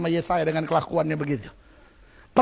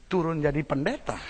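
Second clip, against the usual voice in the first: "turun jadi pendeta" muttered low and soft to himself; the preacher's private puzzled thought, lower and softer; inner thought; 6 semitones lower, 9 dB quieter than usual. Retold or imitated. Preacher recalling his own reaction, muttered softly. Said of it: "pikiran saya".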